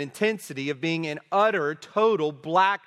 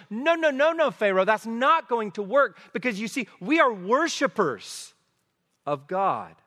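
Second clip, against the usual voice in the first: emphatic refusal; 5 semitones higher than usual. Retold or imitated. Moses voiced refusing Pharaoh.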